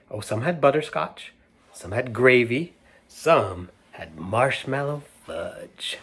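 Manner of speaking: lively read-aloud storyteller; animated picture book reading; reading to children. A narrator's reading. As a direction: read it out to a room of kids.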